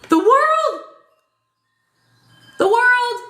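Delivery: gasp, then cry it out high and loud; loud, high-pitched burst of astonishment; amazed exclamation. Real, not acted. Reader gasps at The World card turning up, amazed exclamation.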